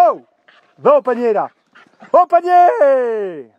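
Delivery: loud order to the dog; stern command. Real, not acted. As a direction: send the dog to its basket firmly.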